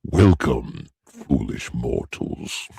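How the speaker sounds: low, slow effect-deepened voice; booming demon lord. Pretend. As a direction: boom it like a haunted host. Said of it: "that effect is just, like, the male voice".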